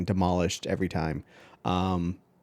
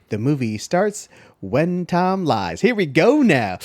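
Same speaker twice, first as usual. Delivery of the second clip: hype intro; 5 semitones higher, 3 dB louder, slower than usual. Acted. Hyping the movie intro.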